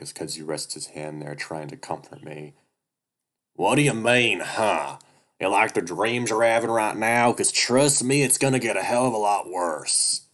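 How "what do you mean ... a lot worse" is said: screeching weasel. Acted. Duke menaces the bear.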